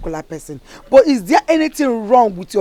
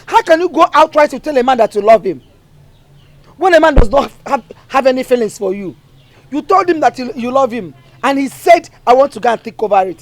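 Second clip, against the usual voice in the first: loud, rising reproach; angry scolding; 2 semitones higher, 8 dB louder than usual. Acted. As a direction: lay into her like a furious mother. Mother scolding her daughter.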